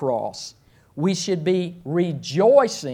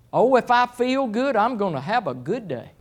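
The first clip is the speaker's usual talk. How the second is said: lightly voiced higher, singsong mimicry; mock feelings-follower; 5 semitones higher than usual. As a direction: lightly mimic someone ruled by feelings, pitched up. Voicing people living on feelings.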